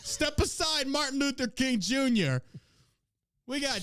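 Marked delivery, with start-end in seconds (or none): 0.0-2.4 sarcastic. Pretend. Sarcastic mock tribute.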